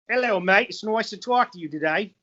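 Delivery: amateur mock-Australian greeting; broad put-on Aussie vowels; attempted Australian accent. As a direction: have a go at a playful Australian accent. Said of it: "speak Australian with an Australian accent".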